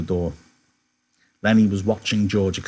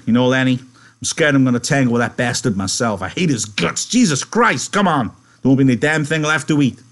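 loud, rising exasperation; worked-up anger; 4 semitones higher, 6 dB louder than usual. Acted. George venting to Lenny about Curly, increasingly heated. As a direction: build from grumble to loud, high outburst.

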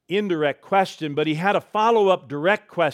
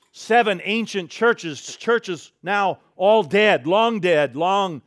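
slow, louder solemn words; solemn slow stress; 3 semitones higher, 4 dB louder, slower than usual. Acted. Pastor tells the congregation the churches are long dead. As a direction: let each word toll like a bell. Preacher slows for solemn emphasis.

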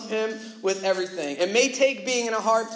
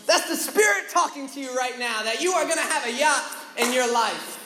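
fervent prayer; 6 semitones higher than usual. Retold or imitated. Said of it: "start praying over the guy".

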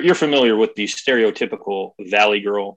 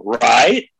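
"Right?" with a rising question tune; upward inflection; 5 dB louder than usual. Retold or imitated. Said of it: "that upward inflection".

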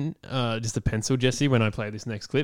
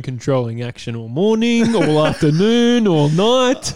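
mock innuendo impression; 3 semitones higher, 4 dB louder than usual. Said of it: "we don't do impressions here".

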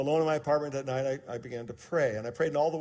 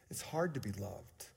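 softer hushed repeat of the line; hushed echo; 4 semitones lower, 8 dB quieter than usual. Shown as a demonstration. Pastor repeating to the congregation, hushed. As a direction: echo it almost to yourself.

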